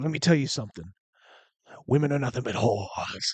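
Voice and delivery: venomous, menacing demonic voice full of contempt. Retelling what a man in his 40s told him, imitating venomous under-breath muttering. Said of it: "he says under his breath, with almost like a demonic venom".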